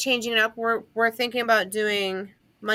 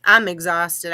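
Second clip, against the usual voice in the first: real tiredness, lower-key than the act; genuinely tired; 3 semitones lower, 5 dB louder, slower than usual. Real, not acted. Host confessing she can barely keep her eyes open, tired. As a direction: admit you are worn out. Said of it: "I'm having a hard time keeping my eyes open".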